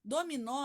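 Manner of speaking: Dominó with weight on final nó; stress on last syllable. Shown as a demonstration. Teacher showing the class the tonic syllable, Dominó stressed on nó. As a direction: land on the nó in Dominó. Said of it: "a sílaba tônica é o nó".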